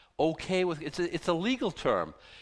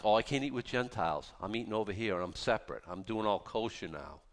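low, quieter smug aside; mocking Peter; 6 semitones lower, 4 dB quieter than usual. Preacher mocks Peter keeping apart from Gentiles, low smug mutter. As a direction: sneer it under your breath, lowered and softer.

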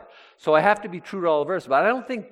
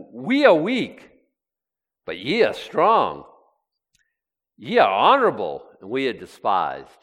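emphatic, see-saw mock deference; sarcastic contrast; 5 dB louder than usual. Preacher voicing Paul against the proud Corinthians, sarcastic. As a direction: exaggerate each half of the comparison. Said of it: "That's sarcasm".

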